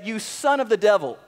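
Paul's rebuke, pressed a little harder; a touch of heat on son; mildly angry rebuke. Acted. Paul rebuking the false prophet before the governor, mildly angry. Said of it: "he was not happy when he said this".

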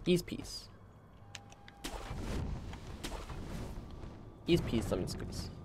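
soft whispered little chant; whispered rhyme. Real, not acted. Player calms himself for the boss, whispered rhyme. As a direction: whisper the rhyme to steady yourself. Calming rhyme before fight.

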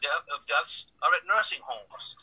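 slow down and lean on the word "homes" at the end; stress on homes. Real, not acted. Councilman making a point to the council, stress on "homes". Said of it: "Emphasize the word homes".

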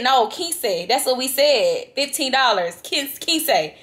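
mildly irritated, insistent correction; retold irritation. Passenger retelling her correction to the Uber driver, mildly irritated. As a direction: firmly hold him to the agreed price. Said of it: "I'm getting irritated".

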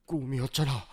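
low, soft murmur; just woken. Acted. Man waking from a dream, low and quiet. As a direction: say it quietly, sunk deep in pitch.

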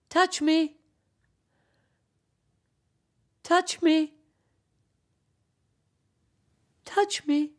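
high echoes dying away; fading echo. Acted. Echo's voice fading among the mountains, high. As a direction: let it fade out like an echo.

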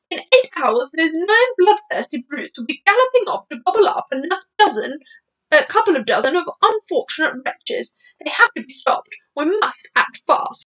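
lightly acted Queen giving orders; urgent Queen. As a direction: warn them gravely that time is short. Queen warns the military men.

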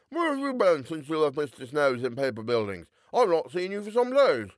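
put-on a cheerful young lawyer greeting a friend; lightly voiced young gent. A narrator's reading.

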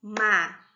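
"Ma-ca-co" in three separate beats, long pauses between; syllable by syllable. Shown as a demonstration. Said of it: "Quantas vezes eu bati palma?". ("Ma-ca-co" sílaba por sílaba, com pausas longas)

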